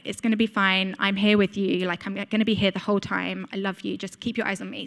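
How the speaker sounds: a dad talking softly, gently comforting; dad reassures his frightened daughter, soft and gentle; soothing dad. Retold or imitated. Dad soothing scared child before surgery.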